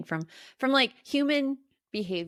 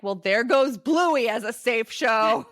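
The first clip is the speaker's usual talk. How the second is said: laughing wry remark; 6 dB louder, slower than usual. Retold or imitated. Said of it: "my sister's like".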